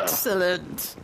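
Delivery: whispered villainous "Excellent". Pretend. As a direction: hiss "Excellent" like a scheming villain. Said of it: "You sound like a villain".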